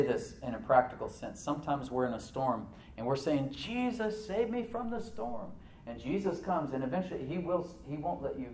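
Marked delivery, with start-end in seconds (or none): 3.5-5.5 slow, high-pitched cry for help; high plea. Retold or imitated. Believer in a storm begging Jesus, mock high plea.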